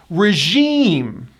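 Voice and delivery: Regime as ruh-ZHEEM; Regime, stressed long second syllable; high E vowel. Shown as a demonstration. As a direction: stretch the EE in Regime. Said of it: "that high E vowel".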